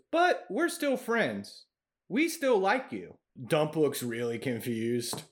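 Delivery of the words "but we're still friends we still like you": sheepish goblin. Acted. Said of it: "he goes".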